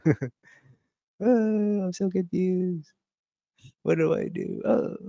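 high, bewildered groaning; high confused mumble; confused man. Retold or imitated. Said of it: "He's like".

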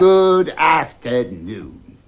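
very slow, final goodbye; final slow dismissal. Acted. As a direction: close the matter for good.

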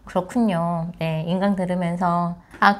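ordinary talk, nothing marked

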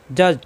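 জজ ending without a bounce; no push ending. Shown as a demonstration. Teacher showing jim joined to za, জজ without a knock. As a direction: join and close জজ with no push. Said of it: "ধাক্কা হবে না".

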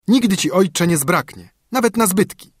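put-on high, carefree young son; cheerful son. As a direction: breezily shrug off the debt. Son giving father money.

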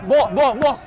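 calling out. Real, not acted. Calling for the ball.

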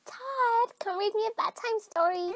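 put-on high, whiny little-kid voice; little child. Child asking babysitter for a bedtime story, childish whine. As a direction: plead like a small child.

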